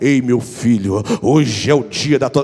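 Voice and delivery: very deep, low, booming, smooth velvety voice. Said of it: "aquela voz aveludada, bonita, alta".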